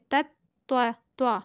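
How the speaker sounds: तत्वा with a heavy, rounded "twa"; तत्वा, the second syllable thick with a w colour. Shown as a demonstration. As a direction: show the full त्वा sound, set apart. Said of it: "त्वा पढ़ेंगे".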